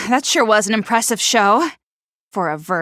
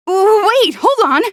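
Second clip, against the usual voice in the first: alarmed; 7 semitones higher, 4 dB louder than usual. Acted. Startled, stopping her partner.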